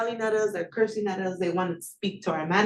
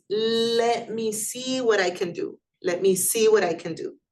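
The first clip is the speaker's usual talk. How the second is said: helpful clerk. Shown as a demonstration.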